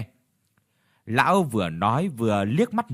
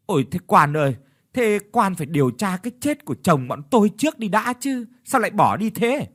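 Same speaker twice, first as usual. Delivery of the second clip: high, louder, mock-wailing plea; wailing widows; 7 semitones higher, 3 dB louder than usual. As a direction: beg the mandarin in a hammed-up lament. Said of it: "khóc lóc tỉ tê".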